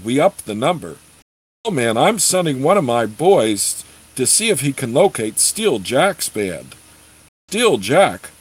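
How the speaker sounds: animated read-aloud with swooping emphasis; story narration. Acted. Reader voicing mercenaries haggling over a contract, lively story narration. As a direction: read the tale aloud with lively, rolling intonation.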